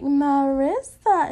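drawn-out name call. Retold or imitated. Friend calls her name.

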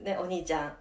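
live sports play-by-play, laughing; breathless rising goal commentary. Pretend. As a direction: narrate the boy like a match announcer. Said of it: "全部実況してみたの".

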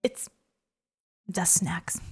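whispering. Real, not acted. Deadpan aside about snacks.

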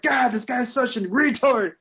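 high, loud, slow imitated gripe; mock outraged yell. Teammates berating a player behind the turret, high mock yell. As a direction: draw it out as an exasperated teammate.

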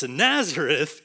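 slow, doubtful exclamation ending in a chuckle; disbelieving exclamation. Shown as a demonstration. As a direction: draw it out in amused disbelief. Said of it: "it's said in a disbelief, a, a doubt".

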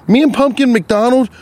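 worked up, tripping over the words; stuttering. Real, not acted. Storyteller getting mad about a coming fight, stuttering. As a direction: stumble and restart as the words jam. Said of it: "I'm, like, stuttering".

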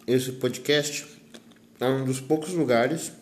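talking with a mouth full; words round a bite of guava. Real, not acted. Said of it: "falando de, de boca cheia".

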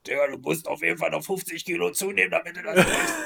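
high laughing coach voice; laughing quote. Pretend.

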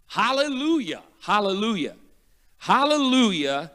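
a high questioning take on the word; wondering what the word even means; puzzled hallelujah. Retold or imitated. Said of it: "And then I realized one day".

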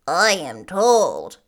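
slow, loud Munchkin man; third Munchkin. A narrator's reading. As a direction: announce it slowly and firmly as a townsman. Narrator voices third Munchkin man.

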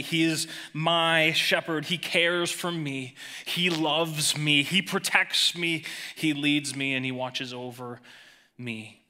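slow, sincere, each line weighed; personal declaration. Shown as a demonstration. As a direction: say it as your own confession. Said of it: "We must say it personally".

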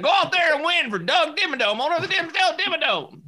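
rally the kid like a cartoon sponsor, squeaky high; Doug Dimmadome pep talk. Mentor urging the young bowler on, very high cartoon voice. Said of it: "he'd be like".

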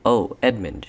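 high, loud happy cry of his name; delighted outburst; excited cry. Acted. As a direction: call out to him, thrilled. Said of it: "she cried".

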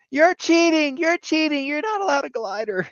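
a sore-loser villain crying foul; whiny Hobgoblin. Retold or imitated. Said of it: "is going".

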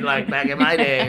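put-on old veteran slipping into a TV greaser; Fonzie. Mocking himself as an old locker room vet, Fonzie-like voice. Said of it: "It sound like Fonzie now".

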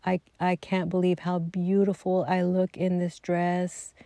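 retold tearful gratitude, understated; imitating near tears. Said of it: "almost crying".

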